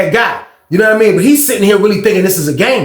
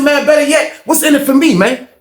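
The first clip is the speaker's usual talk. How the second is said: higher, raised voice pushing back; bargaining shout; 6 semitones higher than usual. Retold or imitated. Inmate pushing back at guard, high raised bargaining. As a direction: demand a cut, voice up high.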